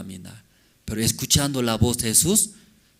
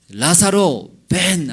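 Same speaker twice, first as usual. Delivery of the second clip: mild shout; 5 semitones higher, 5 dB louder, slower than usual. A narrator's reading. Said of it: "luego gritó".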